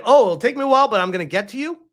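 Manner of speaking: half-hearted sinister warning; mock threat. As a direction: lightly parody the threat. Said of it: "if I talk like this".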